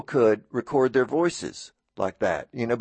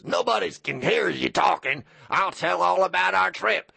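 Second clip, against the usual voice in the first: grandfather's booming voice; 4 semitones higher than usual. Retold or imitated. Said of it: "with his loud booming voice and says".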